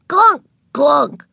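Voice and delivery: high, punched pile-driver clunks; shouted machine noise. A narrator's reading. Little girl imitates a pile driver, shouting. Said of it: "shouted Ramona".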